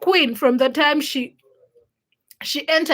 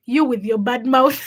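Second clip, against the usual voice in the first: laughing scold. Retold or imitated. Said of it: "she's like".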